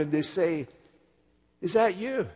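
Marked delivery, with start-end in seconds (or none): 1.6-2.3 Scottish greeting. Retold or imitated. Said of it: "This is a Scottish thing".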